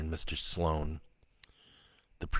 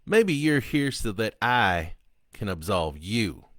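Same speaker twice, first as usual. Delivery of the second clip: defiant killer taunting; 3 semitones higher, 5 dB louder than usual. Acted. Killer Sloan taunting the priest, loud and sneering.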